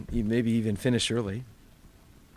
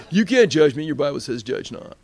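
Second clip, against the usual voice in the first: mock stoner; 4 dB louder than usual. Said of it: "sitting there smoking weed".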